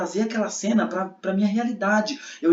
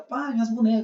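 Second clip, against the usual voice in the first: lightly voiced little girl, pitched up; young daughter; 5 semitones higher than usual. Daughter asking dad for her dolls, lightly imitated child. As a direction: mimic a child calling on dad, higher. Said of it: "ela, que eu tô dando aula".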